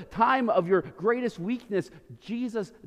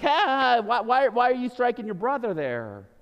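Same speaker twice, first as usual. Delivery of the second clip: arrogant Moses; 6 semitones higher, 5 dB louder than usual. Retold or imitated. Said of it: "He's a little bit arrogant".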